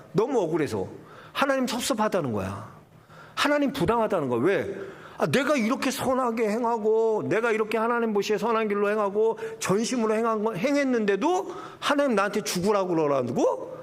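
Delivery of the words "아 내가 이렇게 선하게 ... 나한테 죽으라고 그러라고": sulking king. Retold or imitated. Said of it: "히스기야 삐진 거야".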